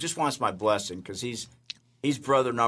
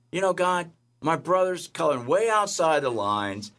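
higher, indignant; aggrieved complaint; 5 semitones higher than usual. Retold or imitated. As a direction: protest the unfairness to God. Complaining to God.

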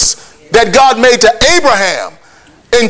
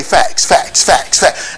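low, hushed repetitive patter; monotonous nagging imitation; 7 semitones lower, 3 dB quieter, much slower than usual. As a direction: repeat it low, like a nagging loop. Imitating an all-day barrage of facts.

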